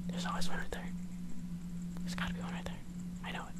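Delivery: hushed, careful, not to be heard; tense whisper. Real, not acted. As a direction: whisper it while sneaking up. Sneaking, hunting hidden enemy.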